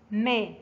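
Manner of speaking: ما set apart as a model syllable; ما with fatha. Shown as a demonstration. Teacher repeating the fatha rule, ما sounded out clearly. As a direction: say ما as m plus a fronted a. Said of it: "تنطق".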